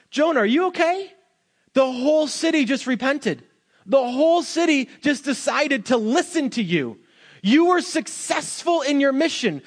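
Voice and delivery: high-pitched, exasperated questioning of Jonah; incredulous challenge. Acted. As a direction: plead with him to see sense. Acts out confronting upset Jonah.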